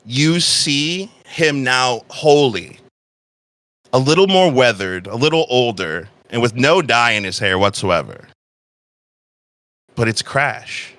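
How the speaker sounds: measured storytelling with long pauses; game master narration. A narrator's reading. Game master describing a tense reunion, measured narration. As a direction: unfold the scene slowly, phrase by phrase.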